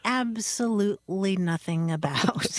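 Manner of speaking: stretched-out pompous patter; mock orator. Reciting old doggerel as show opener.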